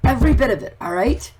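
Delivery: getting fired up about it; worked up. Real, not acted. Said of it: "Sorry if I'm getting a little worked up".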